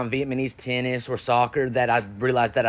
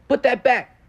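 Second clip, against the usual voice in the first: much higher, louder call to a shoplifter; mock shout; 10 semitones higher, 5 dB louder, slower than usual. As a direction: yell it across the store. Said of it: "He goes".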